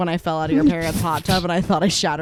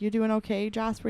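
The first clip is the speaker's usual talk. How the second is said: higher, softened check-in; imitating gentle concern; 5 semitones higher than usual. Family checking on little cousin, higher gentle voice. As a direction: ask as if to a fragile child. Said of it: "We'd be like".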